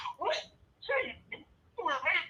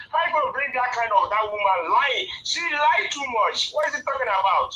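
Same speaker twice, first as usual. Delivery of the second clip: real anger; 5 dB louder than usual. Real, not acted. Caller fed up with a woman's lies, angry. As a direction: let real exasperation push the voice up. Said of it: "It made me go angry too much".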